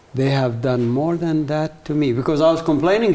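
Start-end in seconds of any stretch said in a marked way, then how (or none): 0.2-2.2 very soft whisper. Retelling words whispered in the ear, imitating a very soft whisper. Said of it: "whispered in my ear, very, very softly saying".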